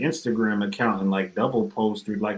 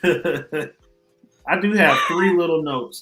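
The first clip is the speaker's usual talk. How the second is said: slow drawn-out announcement; 6 semitones higher, 5 dB louder, much slower than usual. Acted.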